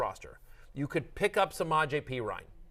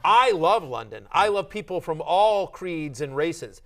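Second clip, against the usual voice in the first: slow, louder emphatic declaration; mock offended; 5 dB louder, slower than usual. Co-host mocking the Australian's supposed offense, mock indignant. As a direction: declare it grandly with punched first words. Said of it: "He gets really, really offended".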